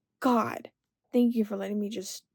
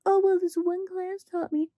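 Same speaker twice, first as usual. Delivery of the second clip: higher mocking know-it-all; mocking critic voice; 7 semitones higher than usual. Mocking critics who say one class taught taxes. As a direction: parody a smug critic lightly. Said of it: "anybody says".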